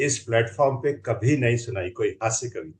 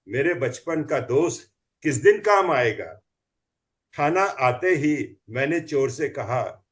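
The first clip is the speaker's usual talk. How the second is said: comic poem recital. Acted.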